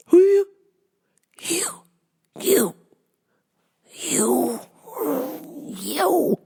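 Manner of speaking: high stuttering accusation, fading out; sputtering disbelief. Retold or imitated. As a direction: jab the word you over and over. Sputtering at dad.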